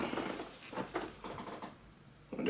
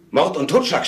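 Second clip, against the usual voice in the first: retold scream; 6 semitones higher, 3 dB louder than usual. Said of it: "schrie sie".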